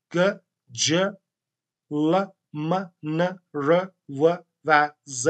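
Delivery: "گ، ج، ل، م، ن، ر، و، ز" as separate sounds, not letter names; isolated consonant sounds. Shown as a demonstration. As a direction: sound out each from "گ" to "ز" slowly, one at a time. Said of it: "حالا من به این صورت تلفظ کردم". (تلفظ جدا جدای صداهای «گ» تا «ز»)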